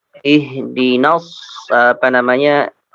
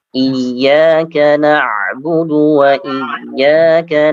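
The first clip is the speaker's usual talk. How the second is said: slow chanted recitation of Iyyaka na'budu; Quran recitation; much slower than usual. Shown as a demonstration. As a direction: recite slowly and melodically. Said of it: "teacher models Quran recitation".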